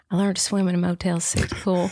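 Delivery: put-on Southern accent, dramatic monologue read. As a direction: deliver it like a Southern audition monologue. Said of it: "doing this in a Southern accent".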